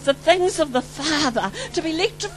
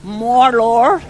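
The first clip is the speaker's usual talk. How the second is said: calling out; 3 semitones lower, 6 dB louder than usual. Retold or imitated. Retold cry on the floor.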